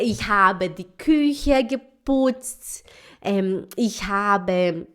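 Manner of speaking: very slow, careful beginner German; slow learner German. Retold or imitated. Student proudly reciting her chores in German, slowly. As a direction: spell out each word like a hesitant student. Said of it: "Aí ela".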